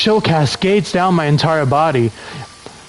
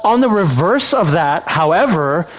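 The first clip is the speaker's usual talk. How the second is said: put-on Valley Girl voice; 3 semitones higher than usual. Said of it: "Do a Valley Girl voice?".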